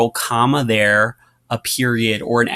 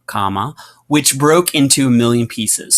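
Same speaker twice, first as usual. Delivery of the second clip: reading aloud. Shown as a demonstration. Teacher reading Wonder aloud to students, pausing at the comma. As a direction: clear read-aloud with a pause at the comma. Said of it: "So notice how I, I pause there".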